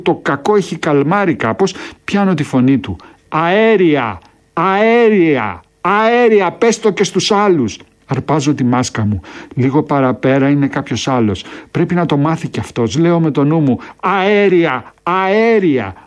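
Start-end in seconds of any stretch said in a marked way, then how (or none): 3.3-7.8 urgent shout. A narrator's reading. Katczinsky yelling to the narrator about gas, urgent shout. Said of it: "Έχει ανοίξει διάπλατα το στόμα του και φωνάζει". 14.0-15.9 urgent raised cry, a touch higher; shouted warning. A narrator's reading. Narrator warning the recruit about gas, raised shout. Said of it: "Φωνάζω".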